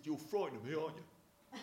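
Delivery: lightly voiced challenging young lad; cocky nine-year-old. Nine-year-old in the head's chair to visitor, cocky challenge. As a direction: taunt like a boy testing a grown-up. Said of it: "this young nine-year-old".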